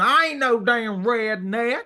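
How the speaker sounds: put-on rowdy, drunken, high, drawn-out screaming. Teasing the listener about his redneck phase: imitating Phil screaming.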